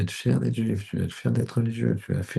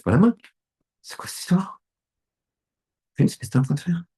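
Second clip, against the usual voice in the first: scolding father; 8 semitones higher than usual. Acted.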